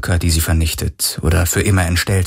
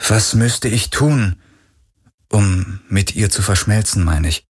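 put-on hesitant young man. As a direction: ask it hesitantly. Galen's hesitant voice.

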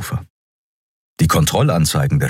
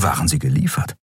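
usual speaking voice

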